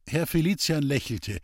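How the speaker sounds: plain reading voice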